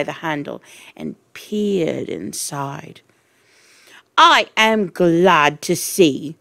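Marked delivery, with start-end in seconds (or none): 4.2-6.3 slow, menacing headmistress; Trunchbull voice. Acted. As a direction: loom over them with every word. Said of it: "she said".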